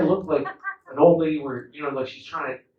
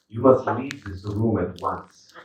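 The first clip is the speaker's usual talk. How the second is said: slow, measured, stately command; imperious dad; 3 semitones lower, slower than usual. Retold or imitated. Dad orders his child out, slow lordly impression. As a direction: imitate a weird dad talking like he's from Spain. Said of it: "he talks like this".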